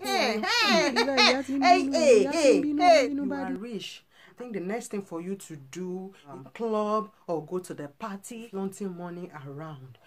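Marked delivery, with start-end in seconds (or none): 0.0-4.0 high, laughing, mocking calls of hey; mocking laughter. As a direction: jeer at the rich with a laugh. Mocking the money flaunters.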